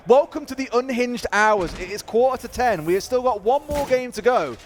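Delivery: esports caster. Real, not acted. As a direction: present the match to viewers joining the stream. Caster welcomes viewers back.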